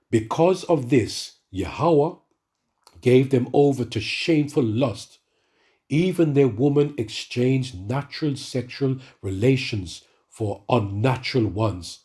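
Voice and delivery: slow, measured Bible reading; slow solemn reading from Romans; scripture reading. Acted. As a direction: read it out slowly and solemnly. Reads scripture aloud.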